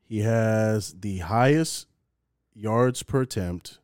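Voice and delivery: slowly, word by word, driving each stat home; patient, pointed recitation; slow emphatic stat list. Real, not acted. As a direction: lay out the numbers slowly and deliberately. Reciting stats slowly to prove point.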